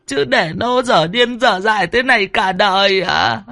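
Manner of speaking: high, wailing plea; tearful pleading. Acted. Old woman kneeling before Bụt, begging high and tearful. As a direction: beg through tears on her knees. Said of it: "Bà già khóc lóc thảm thiết".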